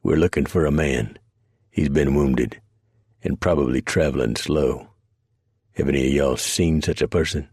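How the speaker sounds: put-on southern accent. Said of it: "heavy-laden with a southern accent".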